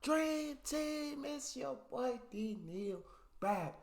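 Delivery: stretched, high, loud greeting; hype intro shout. Real, not acted. Vlogger greeting his viewers, big hyped shout. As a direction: greet the Dream Team at full volume.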